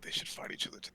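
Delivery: breathy conspiratorial whisper. Acted. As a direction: whisper it behind your hand. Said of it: "a whisper orc".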